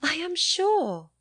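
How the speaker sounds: slow, high cry of protest; cried. A narrator's reading. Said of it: "cried Catherine".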